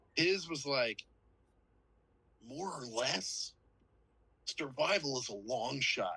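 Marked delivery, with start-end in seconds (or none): 2.5-6.2 slow, all-time bad American accent. Imitating an actor's bad American accent from a film: imitating a bad American accent. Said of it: "He had an all-time bad American accent".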